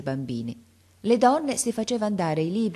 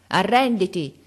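intimazione gridata; 3 semitones higher, 6 dB louder than usual. A narrator's reading. Franti intima ancora.

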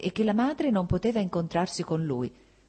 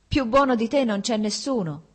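higher, louder desperate outburst through tears; a boy's tearful protest, louder and higher; desperate tearful cry; 6 semitones higher, 5 dB louder than usual. A narrator's reading. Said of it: "egli gridò disperato attraverso le lacrime".

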